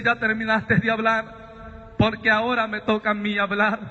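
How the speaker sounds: calm and patient. Retold or imitated. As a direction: take your time, patient but firm. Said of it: "él hablaba muy pausado, muy calmado".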